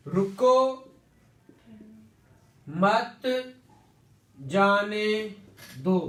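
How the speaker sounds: "रुको", "मत", "जाने", "दो" each alone, with long gaps between; word-by-word pauses. Shown as a demonstration. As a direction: leave a long silence after "रुको", "मत" and "जाने". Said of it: "जैसे मैं अक्सर एग्जांपलीफाई करता होता हूं".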